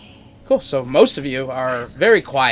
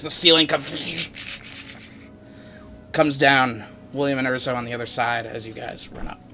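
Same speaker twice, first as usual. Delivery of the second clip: dramatic scene-setting with weighty emphasis; game master narration; 2 semitones higher, 5 dB louder than usual. Acted. Game master describes the fight down the hall, dramatic narration. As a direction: narrate the action as it unfolds for the players.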